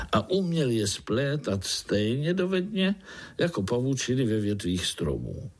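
plain reading voice

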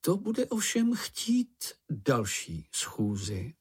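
very slow, pompous objection; objecting. A narrator's reading. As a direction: drag it out like a self-important chairman. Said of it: "namítl Ferko". (pomalá, důležitá námitka)

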